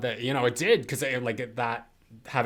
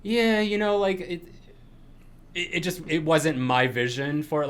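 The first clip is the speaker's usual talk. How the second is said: higher-pitched, hedging retold reply; mincing words politely; 6 semitones higher, 4 dB louder than usual. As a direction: imitate someone trying to be nice about it. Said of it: "trying to mince words and be nice".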